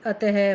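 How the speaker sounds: अतः said slowly ending in a breathy ह sound; visarga demo. Shown as a demonstration. Teacher slowly demonstrating the visarga sound. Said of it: "इसका उच्चारण है के समान होता है".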